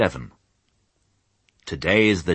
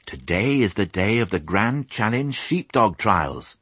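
proud; 4 semitones higher than usual. Acted. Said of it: "said Fly proudly".

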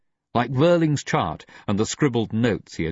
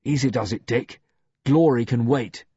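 forced grin; 4 semitones higher than usual. A narrator's reading. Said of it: "he was trying to grin".

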